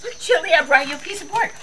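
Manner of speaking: high, fast pet talk. Real, not acted. Owner cooing at her dog, high sweet baby talk.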